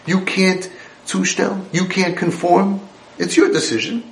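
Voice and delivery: a lightly voiced stern father laying down the rules. Imagined God scolding his exiled children, lightly stern. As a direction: scold them like a parent who holds all the power. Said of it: "I would have thought that Hashem".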